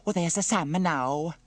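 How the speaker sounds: high, slow, loud Italian woman; Bella. Acted. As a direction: call out on spotting a friend, drawn out. Bella spots Sam arriving.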